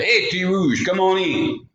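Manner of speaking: calling in. Acted. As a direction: call to someone outside the door. Mama calls girl to come in.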